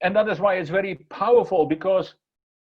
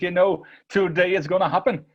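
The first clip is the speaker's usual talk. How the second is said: lightly acted excited youngster; mildly eager, a touch of excitement; excited boy; 3 semitones higher, 3 dB louder than usual. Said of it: "He is so excited because".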